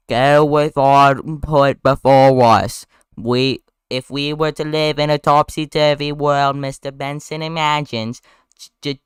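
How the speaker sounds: very slow, stretched southern oratory; hammed-up southern lawyer; exaggerated southern drawl. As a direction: draw out every word in broad Southern. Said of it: "very heavy and exaggerated southern drawl".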